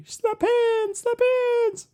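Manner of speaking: high, goofy Waterboy squeal; Bobby Boucher voice. Retold or imitated. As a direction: squeak it like a dim, eager waterboy. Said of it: "Bobby Boucher".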